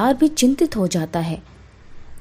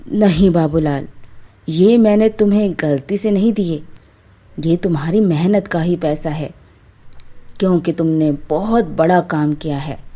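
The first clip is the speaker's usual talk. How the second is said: a lightly deeper, grateful landlord voice; grateful zamindar; 4 semitones lower than usual. Acted. Zamindar thanking Babulal for fixing the hole, lightly deeper grateful voice. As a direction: thank the honest painter like a moved landlord.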